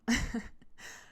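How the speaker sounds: breathy imitated giggle; mock nervous giggle. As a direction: fake his awkward little laugh. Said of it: "look at me and go".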